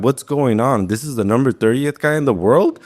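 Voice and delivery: can't believe how easy it is; disbelief. Retold or imitated. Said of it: "now my brain is, like, going in shock".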